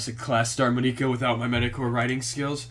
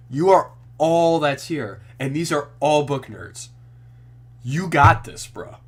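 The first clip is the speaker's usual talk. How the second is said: hype pep talk; 2 semitones higher, 5 dB louder, slower than usual. Real, not acted. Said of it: "pep talk to himself".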